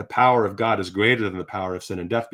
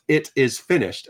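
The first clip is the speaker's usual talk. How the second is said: slow, higher, measured proclamation; retold cry; 5 semitones higher, 3 dB louder, slower than usual. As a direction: declare it like a final triumphant cry. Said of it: "he cried out".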